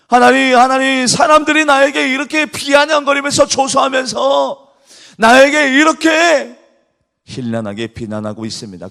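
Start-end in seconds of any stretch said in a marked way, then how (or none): 0.1-6.6 loud, high shouted plea; fervent cry to God. Acted. David crying to God, loud fervent plea. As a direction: call out to God with full force.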